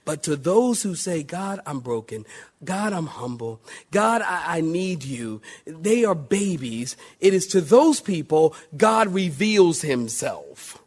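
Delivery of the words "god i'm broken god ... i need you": humble prayer. Pretend. Voicing a humble, broken prayer.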